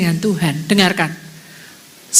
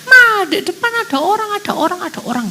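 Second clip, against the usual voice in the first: high, urgent report to Mama; mock alarm, pitched up and repeating; retold panicked yelling; 8 semitones higher than usual. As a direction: imitate a frightened cry for Mama. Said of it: "teriak-teriak".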